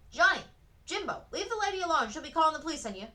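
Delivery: put-on high, loud shout to the boys; yelling loudly. A narrator's reading. Woman in the window yelling at the boys, loud shout. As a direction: bellow a warning down the street. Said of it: "the woman in the window yelled loudly".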